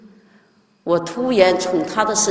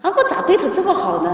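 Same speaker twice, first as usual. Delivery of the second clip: retold self-talk, lifting in pitch at the end; acted-out puzzled talking to oneself; musing to oneself; 3 semitones higher than usual. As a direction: wonder aloud at your own kindness. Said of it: "我自己还自言自语".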